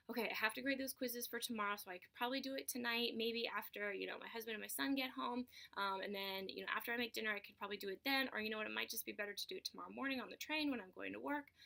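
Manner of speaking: quick, run-on thinking aloud; mock getting carried off by to-do planning; rambling planning. Acting out following a thought into planning.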